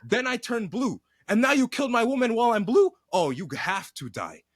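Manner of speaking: mock vengeful rant. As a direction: rant like a wronged villain swearing revenge. Voicing Quaritch's revenge rant.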